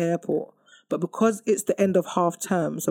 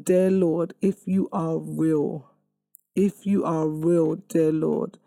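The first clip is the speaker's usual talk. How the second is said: retold prayer; slower than usual. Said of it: "it was just a passing prayer".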